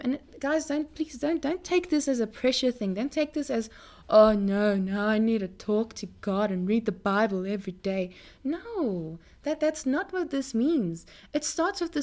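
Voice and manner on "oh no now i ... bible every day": mock burdened. Preacher mimicking someone who feels pressured to pray, mock burdened. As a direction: mimic someone dreading a duty.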